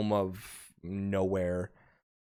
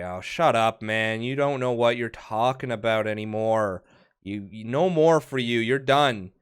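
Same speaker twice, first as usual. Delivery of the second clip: louder, a touch of gruff scolding; annoyed barkeep; 7 dB louder than usual. Acted. Barkeep cutting off the drunk patron, mildly gruff scolding. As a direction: cut the drunk off, fed up. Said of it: "you hear the barkeep say".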